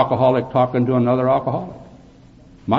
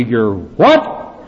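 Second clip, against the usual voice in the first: retold scream; 4 dB louder than usual. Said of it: "screamed at me".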